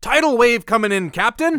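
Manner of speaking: high, loud warning to the captain; urgent high-pitched yell; alarmed call-out. Acted. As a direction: shout a lookout's warning over the sea. Crewman calls out danger at sea.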